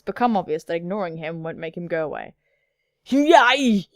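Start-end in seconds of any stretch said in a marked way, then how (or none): 3.1-3.9 mock cheer. Mock cheer at game choice.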